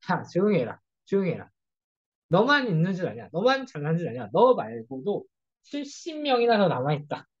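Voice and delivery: retold divine telling-off, lightly voiced; mild mock scolding. God rebuking the complaining prophet, mild scolding. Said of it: "이제 혼내시기도 하지만".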